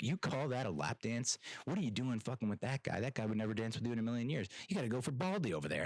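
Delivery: lightly voiced coach, picking up speed; imagined coach scolding the dancers; chewing out coach. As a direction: rant at the team between plays. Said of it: "chewing everyone out".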